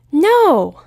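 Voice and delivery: loud, flat-out No; loud firm pony No; sharp refusal. Acted. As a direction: shut it down hard. Twilight refusing.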